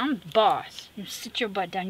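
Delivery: mock bossy snapping, loud at first; snappy retort. Grumpy carer putting people in their place, mock snappy. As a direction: act out telling them off, starting loud. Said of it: "snipping and snapping and biting people".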